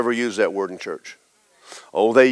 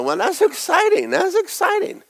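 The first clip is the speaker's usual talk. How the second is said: mildly excited disciples. Retold or imitated. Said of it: "And they went".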